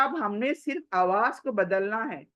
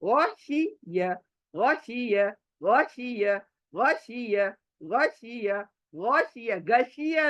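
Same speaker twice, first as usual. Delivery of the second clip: faster drill; slower than usual. Shown as a demonstration. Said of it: "speed बढ़ा सकते हो".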